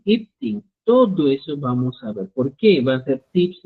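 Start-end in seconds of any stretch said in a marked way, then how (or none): 0.0-0.6 raised repeat. Shown as a demonstration.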